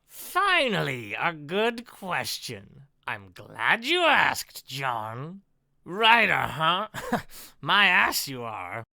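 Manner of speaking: lightly voiced mocking villain; slow mock approval turning scornful; villain Ken. Villain derides the writer's profession, lightly mocking. Reads villain Ken's dialogue.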